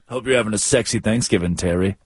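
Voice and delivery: low, quick sultry wish; a hint of a seductive jock; sexy voice. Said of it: "why is he talking like that".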